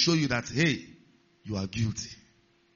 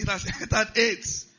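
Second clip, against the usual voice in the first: raised-pitch mock diagnosis; emphatic mock verdict; 6 semitones higher than usual. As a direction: announce the diagnosis in a higher voice. Repeats lab verdict after laughing.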